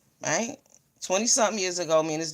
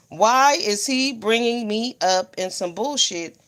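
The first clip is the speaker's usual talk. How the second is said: slow, drawn-out outrage; slow mock indignation; slow indignant; slower than usual. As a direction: spell out each word in disbelief. Retold outrage.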